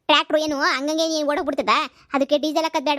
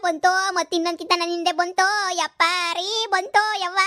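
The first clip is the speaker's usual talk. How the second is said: panicked cry. Acted. Ghost returns, she panics.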